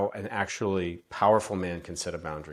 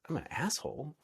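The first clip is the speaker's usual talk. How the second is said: high, teasing disbelief with a laugh; amused fake shock at being called a name; playful mock surprise; 6 semitones higher than usual. Shown as a demonstration. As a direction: play it light, dodge the fireball with humor. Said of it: "your response could be like".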